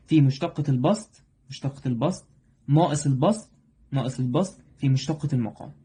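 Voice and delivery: "في مشتقة البسط" said slowly, stepping through each part; slow teacher dictation of the quotient rule. Shown as a demonstration. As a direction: spell the rule out slowly, piece by piece, as you write it. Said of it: "واوعى تعكس في الحتة دي".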